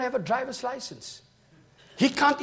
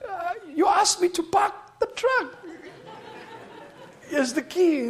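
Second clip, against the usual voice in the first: laughing; 8 semitones higher than usual. Retold or imitated. Brother laughing at crying soldiers.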